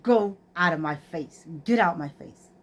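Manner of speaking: retold, controlled scolding; stern dismissal. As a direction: order them away with held-in irritation. Retells sending her son away.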